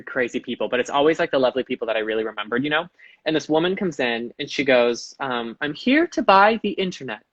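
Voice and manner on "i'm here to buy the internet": raised-pitch mock British older lady; British accent. Older woman to store worker, mock British accent. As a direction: put on a British voice for her. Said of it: "I decided she was British".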